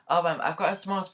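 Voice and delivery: lightly imitated Scottish server; a hint of friendly Scottish accent. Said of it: "had a Scottish accent".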